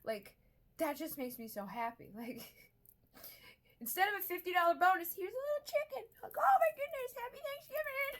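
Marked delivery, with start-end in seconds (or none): 3.8-6.0 high, loud, rushed mock squeal; giddy delight. Retells delight at free meal. 6.4-8.1 very high, hammed-up squeal of delight; overjoyed squeal. Acts out joy at the meal.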